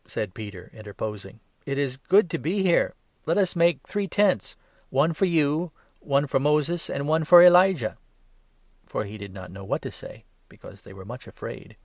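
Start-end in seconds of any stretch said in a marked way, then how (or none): 1.7-8.0 high, loud, tumbling eagerness; flustered excitement. A narrator's reading. Peter offering Jesus three tents, high and loud with flustered excitement. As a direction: gush the plan out in awe. Peter babbling, not knowing what to say.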